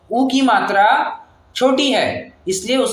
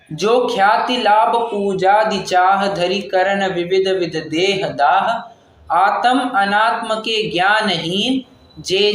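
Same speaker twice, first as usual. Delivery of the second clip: slow, measured reading of a verse; verse recitation; slower than usual. Shown as a demonstration. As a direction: recite the lines slowly and evenly. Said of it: "छह डाला की एक पंक्ति है".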